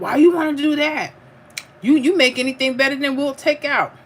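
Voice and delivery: mock husband flattering her cooking; imitating husband. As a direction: play the husband sweet-talking her out of takeout.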